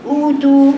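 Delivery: «أوتو» داخل الفم بضم واضح; أخرج «أوتو» من فراغ الفم. Shown as a demonstration. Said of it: "ده فراغ الفم". («أوتو» بنبرة أعلى من تجويف الفم)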